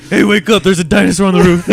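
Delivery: mock wake-up call. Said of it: "just say the craziest things".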